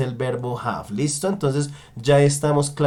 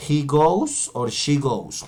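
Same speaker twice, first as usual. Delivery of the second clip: slow, deliberate "goes" for the class; slow model pronunciation; much slower than usual. Shown as a demonstration. Teacher demonstrates the pronunciation of goes slowly. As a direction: stretch each word out slowly. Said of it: "La pronunciación es esa".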